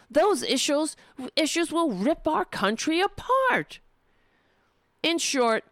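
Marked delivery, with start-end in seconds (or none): 0.1-3.8 pitched way up in mock alarm; theatrical mock dread, voice raised. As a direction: ham up the doom in a higher voice. Dramatizing the column's warning.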